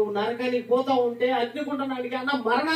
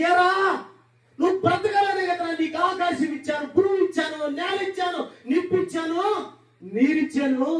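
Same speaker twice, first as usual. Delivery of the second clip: God as grieving father; 4 semitones higher than usual. Acted. God voiced rebuking his child.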